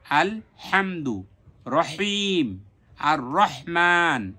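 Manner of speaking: slow drill, every হা, হান, হিন, হুন with strong pharyngeal h; drawn-out Arabic recitation model of হা; mid-throat ha. Shown as a demonstration. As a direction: push the h in হামদু and রহিম from mid-throat. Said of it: "ঠিক এইভাবে যতগুলো হার উচ্চারণে".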